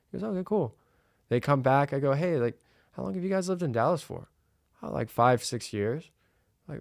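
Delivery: laid-back salesman chatting in a client's kitchen; calm and relaxed. Shown as a demonstration. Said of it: "Do you see how calm and relaxed I am?".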